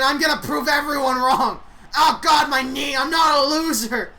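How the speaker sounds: loud, whiny protest; mock indignant rant. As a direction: defend his pride loudly. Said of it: "Randy says".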